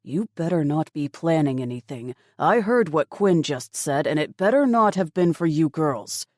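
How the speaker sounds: firm warning father on the radio; lightly voiced stern dad. Father warning daughters over radio.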